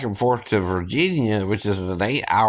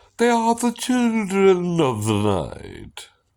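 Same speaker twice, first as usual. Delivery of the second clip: put-on swooping, pitched-up old horror-movie vampire accent; 9 semitones higher than usual. Showing off impersonations, the speaker does the Count vampire voice. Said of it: "let's say we want to do the count".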